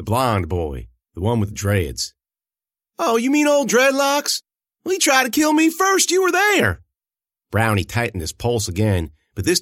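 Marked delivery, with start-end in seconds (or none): 3.0-6.8 high and loud, jeering at her captor; loud mocking protest. A narrator's reading. Choked Amanda jeers loudly at the girl. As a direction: throw it back at her, louder and higher.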